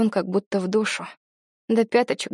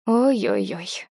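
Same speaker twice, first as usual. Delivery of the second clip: ordinary delivery, nothing marked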